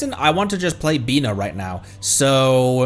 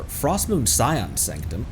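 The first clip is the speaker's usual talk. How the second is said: Frostmoon Scion Sanctum spelled out slowly, each word drawn apart in own voice; slow read; 3 dB quieter, slower than usual. Real, not acted. Player reading the quest name off the screen, slow and careful. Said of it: "reads the place name slowly".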